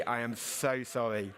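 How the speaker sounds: slowed-down, measured words; slow, deliberate apology. Real, not acted. Speaker apologising to audience for talking fast, deliberately slow. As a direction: apologise word by word, unhurried.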